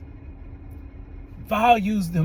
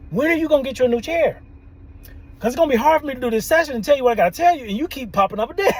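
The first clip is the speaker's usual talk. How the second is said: pure concern; 6 semitones higher, 3 dB louder, much faster than usual. Retold or imitated. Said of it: "like, pure concern".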